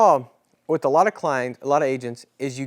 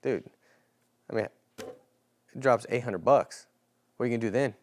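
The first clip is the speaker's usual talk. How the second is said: blunt, careless ask; 4 semitones lower, 4 dB quieter than usual. Shown as a demonstration. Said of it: "What you don't do is say".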